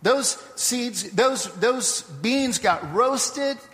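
lightly voiced mother, drawing out the lesson; hint of a patient mother, rising as she explains; wise mother.

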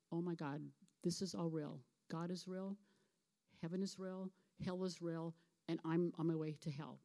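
quiet, low-key dawning horror; understated, soft realization of doom; retold quietly, as if it is sinking in; hushed dread. Man realizes he is going to hell.

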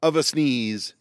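high, slow strained squeak; pre-sneeze strain. Acted. Mimicking a sneeze coming on for viewers, high strained squeak.

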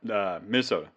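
hoarse, strained voice; losing voice. Real, not acted. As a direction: voice giving out, rough. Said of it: "I'm losing my voice here".

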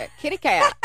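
mock high squeal. Mocking the cheating husband.

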